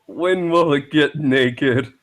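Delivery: slow, laughing question. Real, not acted. Friend laughing at the fan art, slow laughing question. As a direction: giggle the question out slowly.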